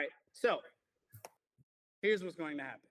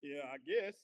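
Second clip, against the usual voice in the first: put-on dumb teen self. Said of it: "I was in there talking like some".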